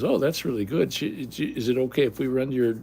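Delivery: a touch of chirpy customer service; insurance agent. Retold or imitated. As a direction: lightly imitate a pleased female agent.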